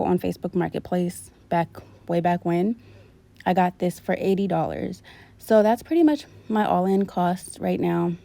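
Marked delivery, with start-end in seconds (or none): 5.4-8.1 short of breath, talking between breaths; a bit winded while speaking. Real, not acted. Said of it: "I'm out of breath".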